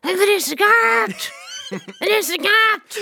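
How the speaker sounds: high, drawn-out mock shriek; slow, high pleading yell; imitated children shrieking. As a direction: shriek it like begging kids. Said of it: "da skreik de".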